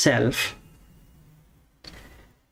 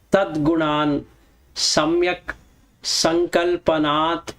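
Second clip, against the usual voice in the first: verse recitation. Acted. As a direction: intone each word as a sacred verse. Recites Sanskrit verse slowly.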